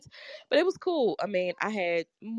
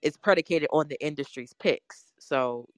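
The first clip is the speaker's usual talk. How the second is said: muffled through a face mask; talking through a mask. Real, not acted. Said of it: "I'm talking through a mask".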